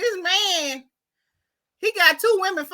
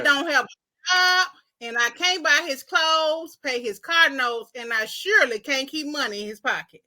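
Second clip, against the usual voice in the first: Barbara. Acted. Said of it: "this is what Barbara saying".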